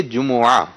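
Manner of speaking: جمعہ in three syllables, ju-mu-ah; correct pronunciation. Shown as a demonstration. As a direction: model جمعہ carefully with a short u after the m. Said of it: "یہ اس کا درست تلفظ ہے".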